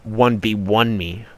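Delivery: drawn-out imitation of a demand; mock demanding challenge. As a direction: imitate a pushy challenger, slowly.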